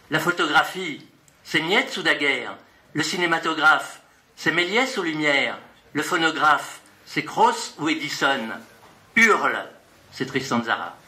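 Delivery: rhythmic recital, names punched out; poetry reading. Acted. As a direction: read the list poem with a beat. Poet reads his poem aloud. (lecture de poème rythmée)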